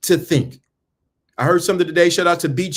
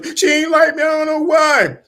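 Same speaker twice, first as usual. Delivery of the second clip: high, shouted whiny imitation; hammed-up heartbroken whine; mock whiny wail; 11 semitones higher than usual. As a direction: wail it like a crybaby. Mocking heartbroken man.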